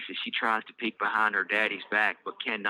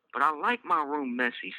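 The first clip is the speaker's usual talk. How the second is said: put-on child protest; 5 semitones higher than usual. Child Elise voiced.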